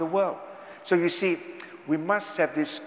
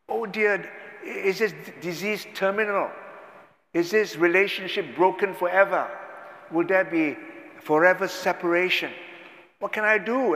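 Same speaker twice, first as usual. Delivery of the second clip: anxious worrier; 4 semitones higher than usual. Acted. Voicing fearful believer.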